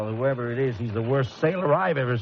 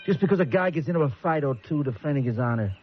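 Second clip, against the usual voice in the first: bitter complaint; 4 semitones lower than usual. Acted. Angry con vents to cellmates.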